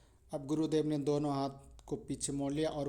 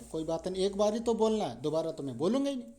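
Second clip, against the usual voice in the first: higher, louder, rushed in fear; scared, fast and raised; panicked giving in; 4 semitones higher, 4 dB louder, faster than usual. Acted. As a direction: blurt it out to save himself. Frightened brother gives in.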